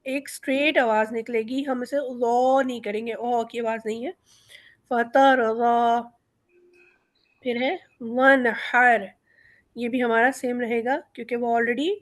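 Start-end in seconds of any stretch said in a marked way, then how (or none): 4.9-6.0 فترضا with ض from the back of the tongue, no z or o sound; correct dad. Shown as a demonstration. Teacher models the correct dad. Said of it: "ضاد ہمارا پیچھے سے نکلے گا".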